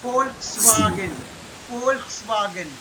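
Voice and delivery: Volkswagen with the V said as F, slowly. Shown as a demonstration. Teacher showing student the German V sound, Volkswagen opened with F. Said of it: "F sound".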